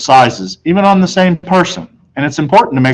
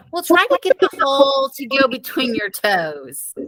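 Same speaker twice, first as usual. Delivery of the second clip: higher, soft, trailing to a whisper; mother's advice; 11 semitones higher, 7 dB quieter than usual. A narrator's reading. Mother whispering advice to Peter, softer. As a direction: confide the trick softly. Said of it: "My mother said".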